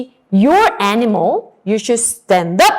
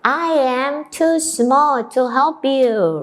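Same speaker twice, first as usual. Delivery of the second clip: mouse voice; 2 semitones higher, slower than usual. Acted. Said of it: "the mouse said".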